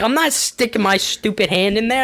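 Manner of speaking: high, mock-indignant protest; disgusted refusal. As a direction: act out refusing mom in disgust. Retold refusal to his mom.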